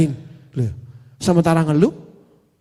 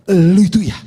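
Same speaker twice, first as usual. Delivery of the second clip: mock angry scolding; 5 dB louder than usual. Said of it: "ganti saya marah nih".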